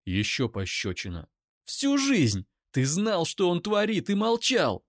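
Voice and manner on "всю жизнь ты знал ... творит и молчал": high, loud, near-screaming rage; screaming accusation at the brother's defender; furious scream. Acted. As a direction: hurls every word at him. Eira screams.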